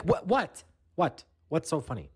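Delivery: stammered, mock-offended questioning; baffled retort. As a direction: play someone confused at being laughed at. Retold baffled reply to being laughed at.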